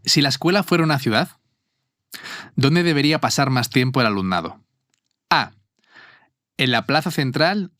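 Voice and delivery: measured quiz host, pausing between options; quiz question read-out. Acted. Reads quiz question and options aloud.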